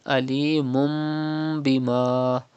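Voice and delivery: alimun bima read as alimum bima with a humming mim; iqlab ghunna. Shown as a demonstration. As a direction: turn the n of alimun into a nasal mim. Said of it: "Do not say alimun bima".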